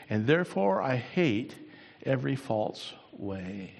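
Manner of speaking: unhurried pulpit reading with pauses; scripture recitation. Acted. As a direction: recite the verse reverently, lingering on phrases. Recites a psalm.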